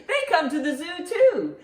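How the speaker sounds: spoken through a laugh. Real, not acted. Grandma laughing at her riddle joke for the kids.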